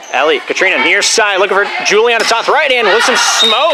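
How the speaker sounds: play-by-play building to a punched finish; live play-by-play. Real, not acted. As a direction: call the rally, rising into the hit.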